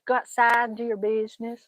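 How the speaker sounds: light Southern twang on a dog command; Southern accent. Shown as a demonstration. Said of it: "your southern accent is on point".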